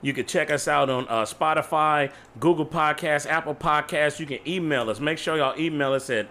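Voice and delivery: upbeat host sign-off to listeners; podcast outro. Acted. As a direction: hype up the audience warmly.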